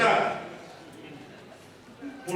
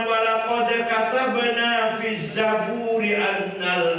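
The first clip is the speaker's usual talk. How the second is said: Quran recitation; 4 semitones higher, 4 dB louder, slower than usual. Acted. Quotes Quran verse.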